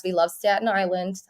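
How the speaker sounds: lightly put-on Long Island accent; playful Long Island accent on the vowels. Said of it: "more of a Long Island accent I'm doing".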